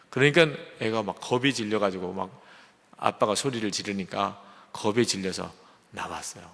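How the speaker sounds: usual speaking voice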